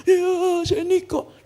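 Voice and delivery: high, wailing mock sob; hammed-up weepy confession; tearful imitation. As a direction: imitate someone crying out an answer. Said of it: "orang nangis".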